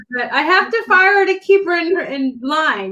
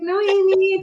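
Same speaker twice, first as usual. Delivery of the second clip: higher, calming voice; imitated calm friend; 5 semitones higher, slower than usual. Imitating Sandy reassuring her before the launch, calm. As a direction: imitate a friend gently talking someone down. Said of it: "talking all calm".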